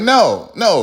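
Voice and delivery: high, loud "no"; firm refusal. Retold or imitated. Commentator voicing Caitlin refusing, high and loud. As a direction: shut it down sharply.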